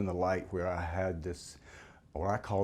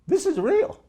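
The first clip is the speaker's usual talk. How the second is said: sudden much higher, louder cry of realization; awestruck realization; 10 dB louder, slower than usual. Retold or imitated. Man realizing God's light is real, loud awestruck cry. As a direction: it hits you all at once, this is real.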